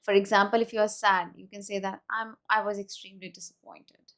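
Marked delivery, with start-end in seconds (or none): 2.1-4.1 sad, falling tune down to "disappointed"; falling intonation. Shown as a demonstration. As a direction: let the voice sink gently through "extremely disappointed". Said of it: "my intonation falls off".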